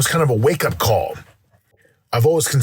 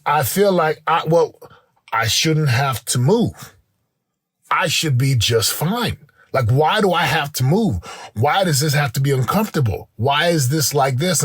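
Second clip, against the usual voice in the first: higher-pitched mock complaint; entitled complaint; 4 semitones higher than usual. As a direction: imitate your own entitled protesting, pitched up. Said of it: "I got this entitlement going on".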